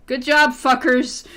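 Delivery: loud, slow sarcastic cheer. Real, not acted. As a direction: drag out a sarcastic congratulation.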